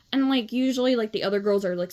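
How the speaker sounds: ordinary delivery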